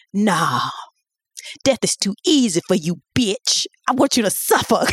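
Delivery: put-on cool, deliberate seventies jive accent; Foxy Brown. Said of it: "do it in the nineteen seventies jive accent".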